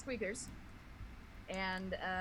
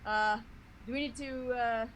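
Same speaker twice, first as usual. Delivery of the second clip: high, loud squeaky critter voice; chattering excited little tree creature; squirrel character voice; 5 semitones higher, 5 dB louder than usual. Acted. Eunice the squirrel character talks.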